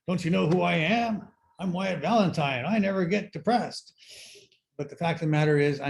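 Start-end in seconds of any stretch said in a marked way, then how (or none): 0.1-3.9 pitched higher, indignant self-important ego; a lightly hammed-up outraged pride; mock inner ego voice. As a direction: puff up like a wounded ego who can't believe it.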